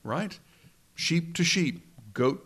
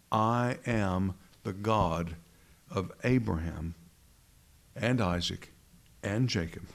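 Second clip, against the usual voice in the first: a hint of a solemn divine voice, slow and lower; voice of God; 3 semitones lower than usual. Preacher voicing God at the burning bush, solemn and slow. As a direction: speak slowly as God naming himself. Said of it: "what does the voice say".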